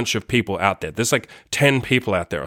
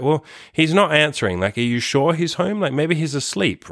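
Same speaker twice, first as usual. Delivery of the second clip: lightly voiced sweet old lady, pitched higher; a hint of a kindly old neighbour, higher voice; 6 semitones higher than usual. Old lady questioning the woman at the door, lightly voiced sweet old lady. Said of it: "like, a sweet old lady voice".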